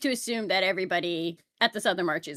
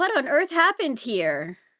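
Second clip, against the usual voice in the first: put-on guileless, innocent confusion, pitched up; 6 semitones higher than usual. Playing a character walking up to the king's men: acting innocent and confused. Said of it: "with the most, like, innocent, confused look on her face go".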